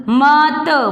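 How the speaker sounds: ordinary talk, nothing marked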